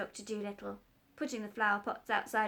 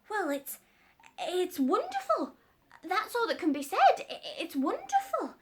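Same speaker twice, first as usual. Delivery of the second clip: raised, loud, eager tradesman; excited working man, higher and louder; cat's meat man; 4 semitones higher, 5 dB louder than usual. Acted. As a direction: gush over the doctor's book.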